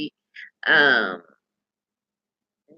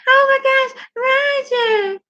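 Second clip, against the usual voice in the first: high, gushing mother's cry; fussing mother; faster than usual. Retold or imitated. Mother rushing to coddle Roger, high gushing cry. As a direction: fuss over the child, high and breathless. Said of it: "she was like".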